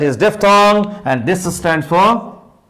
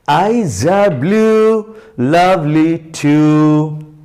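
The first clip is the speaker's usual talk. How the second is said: slow rhyme recital; much slower than usual. Acted. Teacher reciting the rhyme to the pupils, slow sing-song. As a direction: recite each line slowly, in a sing-song way.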